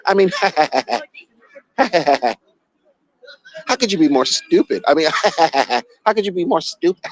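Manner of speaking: cracking up between phrases; real mocking laughter. Real, not acted. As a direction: laugh helplessly at the stupidity of it. Cracking up at the lawsuit.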